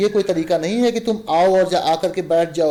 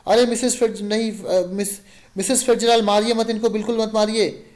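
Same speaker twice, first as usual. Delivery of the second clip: pleading; 5 semitones higher, 3 dB louder than usual. Acted. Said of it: "Fitzgerald कहता है".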